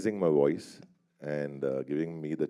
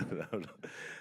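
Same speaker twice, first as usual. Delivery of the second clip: nervous laugh; 14 dB quieter than usual. Real, not acted. Nervous laugh after admitting nerves.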